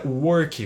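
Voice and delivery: "work" said Brazilian-style as "u-orki"; Portuguese O in "work"; "work" with O sound. Shown as a demonstration. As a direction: give "work" an O vowel and an added "ki". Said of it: "com som de O".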